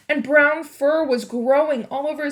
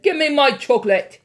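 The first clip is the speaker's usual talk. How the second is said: louder, insistent schoolboy; demanding boy; 3 semitones higher, 8 dB louder than usual. A narrator's reading. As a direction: demand the sweets. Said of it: "he said".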